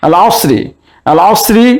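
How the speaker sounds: "আল আসরি" with the article's lam audible; lam pronounced. Shown as a demonstration. Teacher repeating for students, lam sounded in "আল আসরি". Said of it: "লাম উচ্চারণ হচ্ছে".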